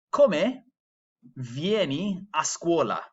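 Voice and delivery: "Come vieni a scuola?" slow, the E of "Come" clear; slow Italian. Shown as a demonstration. Teacher modelling the question for students, slow. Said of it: "I'll say that one again".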